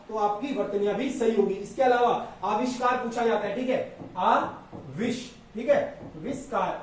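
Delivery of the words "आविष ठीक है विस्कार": slow आविष split from विस्कार; slow syllables. Shown as a demonstration. Teacher breaking a word into syllables for students. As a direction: break आविष्कार into slow parts. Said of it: "इस तरीके से लिखा जाएगा".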